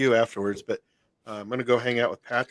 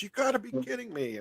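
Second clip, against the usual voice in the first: lightly mimicked high, soft disbelief; imitating mom; 11 semitones higher, 9 dB quieter than usual. Telling cousins what mom said, high soft imitation. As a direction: quote her in a higher, softer voice. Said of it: "and she goes".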